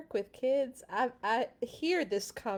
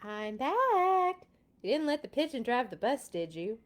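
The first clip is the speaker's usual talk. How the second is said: bus driver returns; 3 semitones higher than usual. Acted. Bus driver asking the reader, a bit raised. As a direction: check in briskly.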